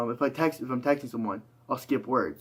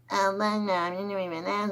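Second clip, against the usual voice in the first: high-pitched character voice; squeaky high panic voice; 8 semitones higher than usual. Shown as a demonstration. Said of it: "I'm very good doing high-pitched voices".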